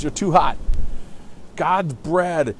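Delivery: angry father. Retold or imitated. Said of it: "he says".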